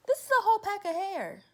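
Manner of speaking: high, loud disbelieving exclamation; high loud astonishment; incredulous. Real, not acted. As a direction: show it off in disbelief.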